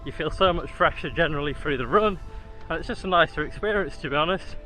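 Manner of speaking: talking mid-run, steady stride; while jogging. Real, not acted. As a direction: speak while jogging along. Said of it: "going along pretty nicely now".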